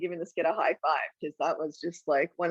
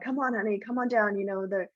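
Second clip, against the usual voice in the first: coaxing mom again; 3 semitones higher than usual. Retold or imitated. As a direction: try once more to talk the kid down. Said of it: "then she tries again".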